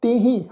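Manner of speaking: ਤਿਹੀ with a nasalised final ee; nasal ending. Shown as a demonstration. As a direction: nasalise the last vowel of ਤਿਹੀ. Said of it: "ਬਿੰਦੀ ਸਹਿਤ ਨਾਸਿਕ ਉਚਾਰਨ". (ਤਿਹੀ ਦਾ ਨਾਸਿਕ ਉਚਾਰਨ)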